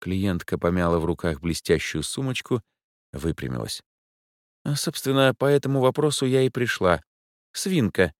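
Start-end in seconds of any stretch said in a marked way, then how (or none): 4.6-8.1 higher, fussy lady's voice; a capricious rich lady rolling her eyes; Angela's voice. A narrator's reading. A bored rich client explains why she's out at night.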